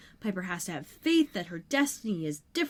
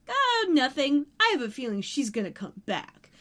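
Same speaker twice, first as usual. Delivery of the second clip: sly; 3 semitones higher than usual. Retold or imitated. Host voices Paige dodging her sister's question, mildly sly. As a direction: play coy, as if hiding what you know. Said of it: "Paige very slyly is like".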